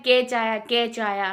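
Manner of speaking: कैच said as "catch"; कैच with a ch sound, as commonly misread; wrong reading. Shown as a demonstration. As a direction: read कैच like the word catch. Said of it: "तो वो कैच नहीं है".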